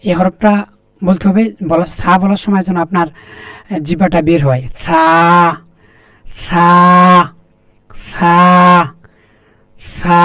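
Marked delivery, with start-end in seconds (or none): 4.9-10.2 সা said softly, with the tongue tip showing. Shown as a demonstration. Teacher showing students a soft সা. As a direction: gently model the letter সা. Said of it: "আমি যেভাবে বলতেছি আপনারা সেভাবে বলেন".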